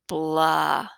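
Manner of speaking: low, grumpy grumble. A narrator's reading. Toad answering Frog from inside the house, grumpy. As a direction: grumble like you won't get up. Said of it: "Toad sounded very grumpy".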